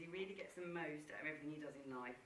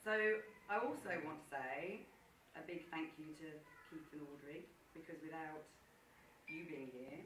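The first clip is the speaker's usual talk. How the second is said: sincere. Real, not acted. Heartfelt toast to the couple.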